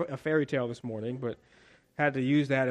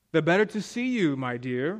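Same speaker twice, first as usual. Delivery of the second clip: big bad wolf. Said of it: "replied the wolf".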